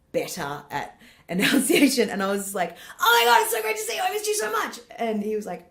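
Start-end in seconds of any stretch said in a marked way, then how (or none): 3.0-4.8 high, loud, rushed gush; words run together at top speed; fast Australian mumble. Retold or imitated. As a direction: gabble an excited greeting in one breath. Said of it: "Did you always speak like this".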